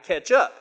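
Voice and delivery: "catch up" said like "ketchup"; mispronounced catch. Shown as a demonstration. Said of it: "Not catch up, but catch up".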